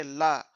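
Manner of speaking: "ला" as a separate syllable; teacher isolating "ला"; sounded-out syllable. Shown as a demonstration. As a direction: say ला alone as one word part. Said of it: "छोटी-छोटी parts में आप pronounce".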